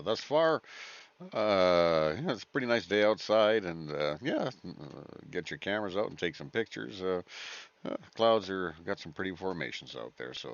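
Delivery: airline pilot speaking to passengers; captain announcement. Pretend. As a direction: cabin PA announcement. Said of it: "captain's cabin announcement".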